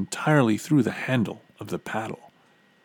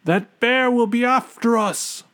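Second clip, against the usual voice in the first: urgent warning; 14 semitones higher, 5 dB louder than usual. A narrator's reading. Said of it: "he told the others".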